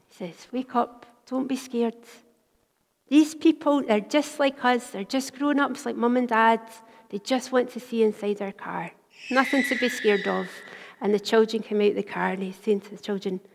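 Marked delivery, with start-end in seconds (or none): 0.5-10.5 reassuring. Retold or imitated. Father reassuring scared children.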